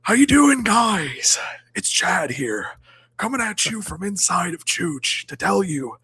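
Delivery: hyped-up alpha bro boasting to incels; Chad voice. Acted. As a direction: play the cocky ladies' man bragging. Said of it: "a Chad voice, which is".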